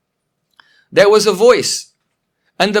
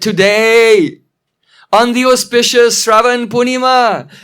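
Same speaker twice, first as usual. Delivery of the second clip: proud, ringing proclamation settling into slower relish; relishing victory. Acted. Padma foretells Chandravali's meeting with Krishna, relishing victory. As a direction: proclaim it as if victory is already won. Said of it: "she's already relishing the victory".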